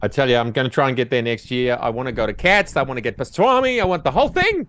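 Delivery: bad New York accent, pitch climbing. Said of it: "That was the worst New York accent I ever heard".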